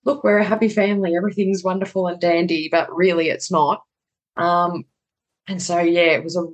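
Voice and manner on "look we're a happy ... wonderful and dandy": mock cheerful. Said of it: "trying to do the whole".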